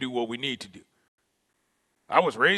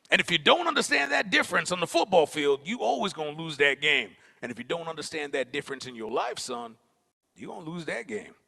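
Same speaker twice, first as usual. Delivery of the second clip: coach's stern lesson; 3 semitones higher than usual. Retold or imitated. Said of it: "he was just like".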